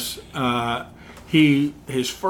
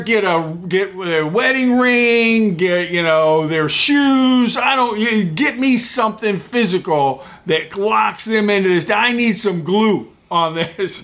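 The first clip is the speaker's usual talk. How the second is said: demanding manager; 4 semitones higher, slower than usual. Retold or imitated.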